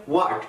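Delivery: WHAT opened on a rounded w; W pronunciation. Shown as a demonstration. Teacher repeats the W for learners, w-sound start. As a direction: say 'what' as 'wat', no h. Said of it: "ডাব্লুর উচ্চারণটি তখন হবে".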